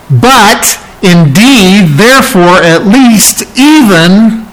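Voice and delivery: slow, broken phrases with pauses; halting, stuttering. Retold or imitated. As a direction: stammer it out in bits. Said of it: "it's almost like he's stuttering".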